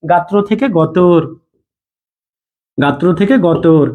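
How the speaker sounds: slow, deliberate model of গাত্র থেকে গতর; slow teaching demo. Shown as a demonstration. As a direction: spell out গাত্র then গতর slowly for the class. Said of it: "তৎসম শব্দটা কিছুটা আঞ্চলিক হয়ে বিকৃত হয়ে যাবে".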